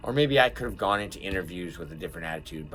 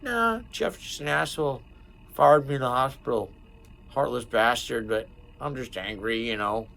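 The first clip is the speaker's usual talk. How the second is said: high, loud retelling of his own rant; replaying himself venting about Jeff, pitched up; retold rant to Ryan; 5 semitones higher, 4 dB louder than usual. Explaining to coworker Ryan why he's angry, high and loud. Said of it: "I was like".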